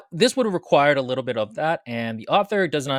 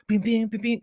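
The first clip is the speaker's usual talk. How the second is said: heist music; 7 semitones higher than usual. Retold or imitated. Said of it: "the music goes in the round".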